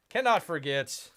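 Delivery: cannot forget called out firmly; a loud, firm build-up; emphatic announcement. Acted. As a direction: announce it like a big reveal. Building up to nemesis reveal.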